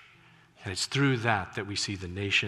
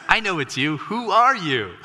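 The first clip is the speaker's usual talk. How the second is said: calling out; 8 semitones higher, 6 dB louder than usual. Retold or imitated. Calling back through window.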